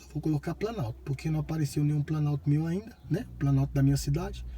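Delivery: low voice so the mic won't hear; talking quietly. Real, not acted. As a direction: keep it down near the microphone. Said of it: "Eu tô falando baixo assim".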